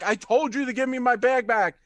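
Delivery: lightly acted, insistent demand; centaur demanding. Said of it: "the centaur is like".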